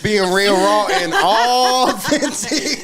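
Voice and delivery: slow, laughing through authentic. Shown as a demonstration. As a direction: draw it out with a laugh. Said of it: "Let's put that voice in there".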